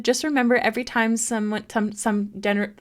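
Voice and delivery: tripping over the words; stumbling, stuttering read. Real, not acted. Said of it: "I'm, like, stuttering".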